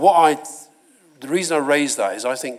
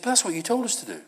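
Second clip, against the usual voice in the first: higher-pitched retold protest; defensive protest; 9 semitones higher, 3 dB quieter, faster than usual. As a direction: imitate a politician pushing back, higher. Politician protests at adviser's criticism.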